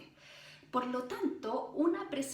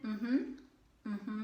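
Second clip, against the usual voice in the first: closed-mouth hum; 3 semitones lower than usual. Shown as a demonstration. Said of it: "pasar la lengua con la boca cerrada".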